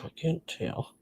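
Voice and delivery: very soft, wheezing breath; words squeezed out between wheezes; wheezy voice. Real, not acted. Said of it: "I'm wheezing".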